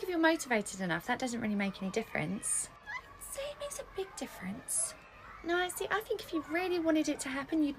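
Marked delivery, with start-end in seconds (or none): 2.9-4.9 muttered retort. Acted.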